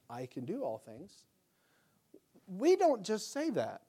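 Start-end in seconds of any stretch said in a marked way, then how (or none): 0.1-1.2 "I can do all things" said low and soft, throwaway and flat; secular-sounding take. Shown as a demonstration. Pastor mocking the T-shirt slogan, low and soft. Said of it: "Sounds kinda secular".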